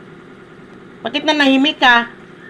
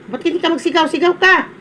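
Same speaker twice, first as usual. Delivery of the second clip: sharp, higher-pitched scolding challenge; real exasperated scolding, pitched up; scolding dare; 6 semitones higher than usual. Real, not acted. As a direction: dare them to go on and shout. Scolding, daring Kelly to shout.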